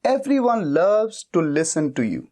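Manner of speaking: very slow, each word spelled out for students; slow dictation. Shown as a demonstration. Teacher slowly dictating the English sentence to learners. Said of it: "हर कोई तुम्हारी बात सुनना पसंद करता है".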